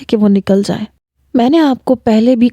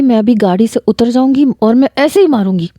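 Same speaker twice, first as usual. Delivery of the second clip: angry; 3 semitones higher, faster than usual. Acted. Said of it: "بڑے غصے میں تھی".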